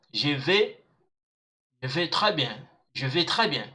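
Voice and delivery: "vais" said with an open è, like "veh". Shown as a demonstration. French teacher modelling AI for learners, "vais" as open "veh". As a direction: sound the AI in "vais" as è, the final s silent. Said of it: "it sound like A".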